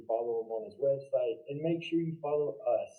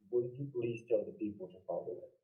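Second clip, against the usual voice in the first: softer, trailing-off question; hard to hear; 2 semitones lower, 6 dB quieter, faster than usual. Real, not acted. Host asking guest for a plug, too quiet to hear. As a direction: ask it too quietly to be heard. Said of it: "I couldn't hear you".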